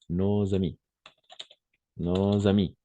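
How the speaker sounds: "nos amis" linked by a z; liaison in "nos amis". Shown as a demonstration. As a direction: repeat "no-z-amis" as a model. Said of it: "si on va faire la liaison". (« nos amis » avec la liaison)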